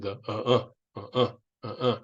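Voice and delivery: short rhythmic throaty uh-uh grunts from the gourd song. Shown as a demonstration. Teacher showing the class the song's end grunts. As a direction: grunt the song's ending in a steady cadence. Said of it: "Those are not grunts".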